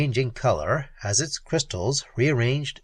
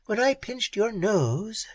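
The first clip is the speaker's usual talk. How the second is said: slow, raised mock-sweet tease; sweet query; 8 semitones higher, slower than usual. A narrator's reading. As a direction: ask with sugary mockery. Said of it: "she queried sweetly".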